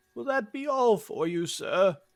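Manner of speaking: put-on elderly English grandfather accent. Asked for a grandpa voice that is also British, the speaker tries it: British grandpa voice. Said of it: "grandpa voice ... also got to be British".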